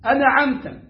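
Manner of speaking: أنعمت as anaʕemta with a vowel after نون; the wrong أنعمت with an added vowel; wrong form. Shown as a demonstration. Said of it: "لا تقل".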